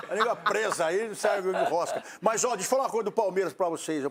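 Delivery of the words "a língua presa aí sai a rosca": laughing. Real, not acted. Laughing about his lisp.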